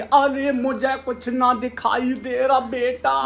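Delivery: put-on high, slow old lady voice; frail granny, slowly; old woman voice. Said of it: "जब भाभी आ जाएंगे".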